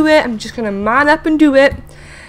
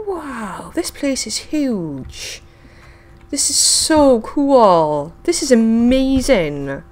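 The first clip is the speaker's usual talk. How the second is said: hushed awe; 4 dB quieter, slower than usual. Real, not acted. Awe at huge new place.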